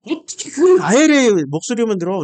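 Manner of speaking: 야곱에게 화가 난 설교; angry rant. Real, not acted. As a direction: let real anger spill into the insults. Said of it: "내가 왜, 왜 이렇게 화를 내냐면은".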